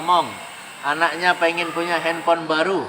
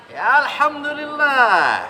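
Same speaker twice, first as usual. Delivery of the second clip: contented reply; 7 semitones higher, 3 dB louder, slower than usual. Acted. Acted happy reply to greeting.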